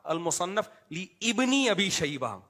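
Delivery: لی ابنی with the alif sounded, no pause; mispronounced name. Retold or imitated. Mimicking the engineer's repeated misreading, mispronounced name. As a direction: sound ابنی's first "i" after لی. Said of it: "وقف بھی نہیں کر رہے تو بار بار".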